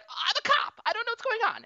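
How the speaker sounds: put-on panicked girl. Character in a TV show, mock panicked, pitched high. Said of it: "And she's like".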